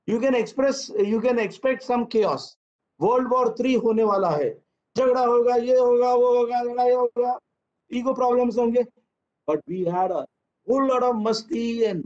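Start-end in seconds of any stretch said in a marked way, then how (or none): 3.0-8.9 mock alarm. Mock dramatic chaos forecast.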